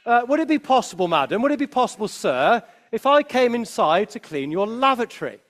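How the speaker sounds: a light touch of a grand royal voice, quick and polite; faintly regal, hurried request; most kingly voice. Retold or imitated. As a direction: lightly play the king asking a favour. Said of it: "in his most kingly voice".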